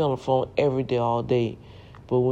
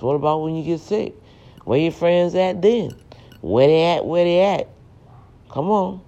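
loud, higher preaching call-out; rising rant; 4 semitones higher, 5 dB louder than usual. Real, not acted. Vlogger calling out fickle friends, loud and rising. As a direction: demand answers from fair-weather friends.

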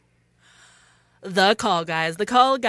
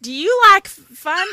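slow, loud, high Canadian attempt slipping Southern; botched Canadian accent with a Southern drift; Canadian gone Southern; 7 semitones higher, 7 dB louder, slower than usual. Host plugging a podcast, Canadian accent turning Southern. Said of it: "You went Southern again".

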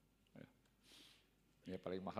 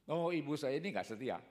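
shocked son; 7 semitones higher, 6 dB louder than usual. Retold or imitated. Son reacting to mother's chats.

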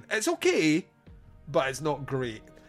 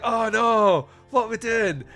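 laughing, a touch higher and louder; laughing through mock dismay; 8 semitones higher, 7 dB louder, slower than usual. Mock dismay at slipping accent.

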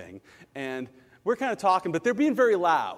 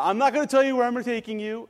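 light playful secretive tone; a hint of a wife keeping a secret; teasing wife; 7 semitones higher, 4 dB louder than usual. Wife teasing husband about mystery trip, playful. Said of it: "And so she said".

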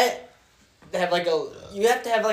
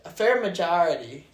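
"fair majority" with a Chicago vowel, "majority" said as "majahrity"; Chicago accent on "fair majority". Shown as a demonstration. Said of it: "with my Chicago accent".

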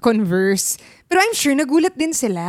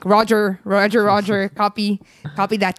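radio talk; 4 semitones lower than usual. Acted. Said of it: "sa mic".

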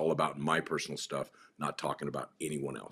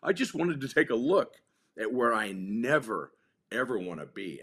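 mock yell, much higher and louder; retold yell; 6 semitones higher, 4 dB louder than usual. Telling the addicted kid to go kill himself, half-yelled. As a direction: hurl it at him like a dare.

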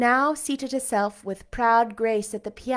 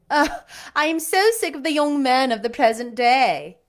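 exclaiming; 5 semitones higher, 5 dB louder than usual. A narrator's reading. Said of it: "exclaimed she".

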